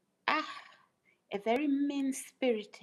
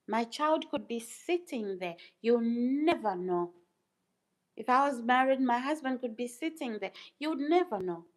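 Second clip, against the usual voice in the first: rising, louder, pressing the point; emphatic insistence; 4 semitones higher, 5 dB louder than usual. Real, not acted. Vlogger to suspicious viewers, getting louder and higher. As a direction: push each "never know" harder.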